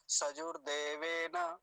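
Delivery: सजूर said as "sajor", without the long oo; सजूर देवेन with the oo slackened to a short o; mispronounced short vowel. Retold or imitated. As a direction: imitate learners rushing सजूर देवेन as "sajor deven". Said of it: "ये गलत उच्चारण है".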